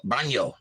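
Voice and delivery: Baño as BAHN-yo, decided; settled Spanish ñ. Shown as a demonstration. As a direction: land on Baño with a ny. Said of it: "I'm going baño".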